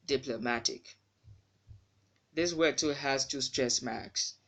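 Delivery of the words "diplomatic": diplomatic with weak middle vowel; reduced PLO in diplomatic. Shown as a demonstration. Teacher corrects the word, PLO reduced in diplomatic. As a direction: glide lightly over PLO in diplomatic. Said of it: "It should be".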